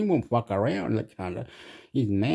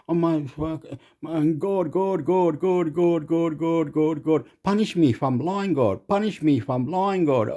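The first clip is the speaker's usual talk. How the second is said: hammed-up pleading to God, pitched up; a hint of a frantic confession; mock prayer; 3 semitones higher than usual. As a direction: beg heaven like a guilty kid.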